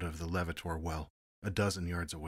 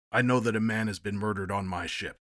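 indignant; 3 semitones higher, 6 dB louder than usual. Acted. Angry captain retorts.

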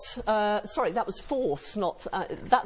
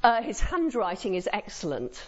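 dry faint praise. Shown as a demonstration. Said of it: "Ask me whether so-and-so is a good philosopher".

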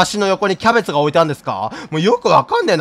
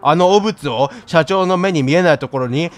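pompous mayor cat voice; 3 semitones lower than usual. Acted. Game streamer reads the mayor's orders, pompous. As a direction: lord it over the player. Voicing the mayor cat's lines.

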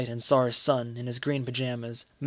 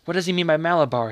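anxious question; 4 semitones higher, 6 dB louder, faster than usual. Acted. Frightened mother asks urgently.

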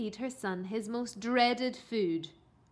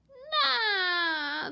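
high, loud wailing no; a kid crying at rhubarb; bawling; 9 semitones higher, 5 dB louder than usual. A narrator's reading. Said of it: "the boy bawled".

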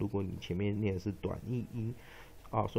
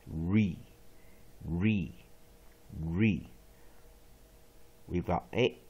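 deliberate classroom recitation, each step set apart by pauses; slow model pronunciation for repetition; syllable drill; 3 semitones lower, 4 dB louder, slower than usual. Shown as a demonstration. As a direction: drill the word piece by piece.

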